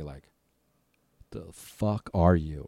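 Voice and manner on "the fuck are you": slow, drawn-out retold disbelief; acted stare of bewilderment, very slow; stunned disbelief. Researcher staring at him like an apparition, slow disbelief. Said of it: "That's how he's looking at me".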